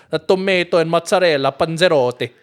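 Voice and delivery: "tomato and mozzarella panzerotti" said with Italian vowels, to-MA-to, mot-sa-REL-la; Italian pronunciation. Pretend. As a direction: roll out "panzerotti" like a native Italian. Reads Italian dish name.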